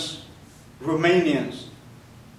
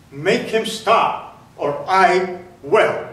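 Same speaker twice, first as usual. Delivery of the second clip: slow, louder threatening order; guard's threat; 4 dB louder, much slower than usual. Retold or imitated. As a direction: drag out the threat like a cold camp guard. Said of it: "the same voice".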